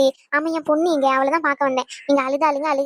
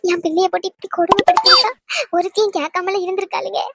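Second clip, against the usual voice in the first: tearful outcry. Acted. Mother's outburst at in-laws.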